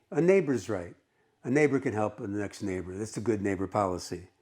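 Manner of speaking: lightly acted sweet explanation; very sweetly. Woman justifying herself to her annoyed bench neighbor, mildly sweet. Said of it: "says very sweetly".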